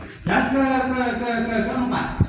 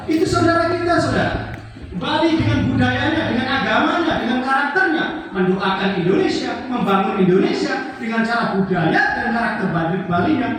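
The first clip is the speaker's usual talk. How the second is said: raised, emphatic sermon voice; preaching; 6 semitones higher, 4 dB louder than usual. Real, not acted. Preacher defending Balinese Hindus to the congregation, impassioned preaching. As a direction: proclaim it to the crowd, high and loud.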